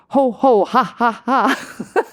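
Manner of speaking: loud, high laughing chant. Shown as a demonstration. Demonstrating laughter yoga to viewers, laughing chant. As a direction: belt out the ho ho ha ha. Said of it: "the first one is just to say".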